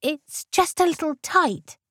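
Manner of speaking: put-on high squeaky young lady. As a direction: squeak it out, embarrassed. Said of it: "Jane squeaked".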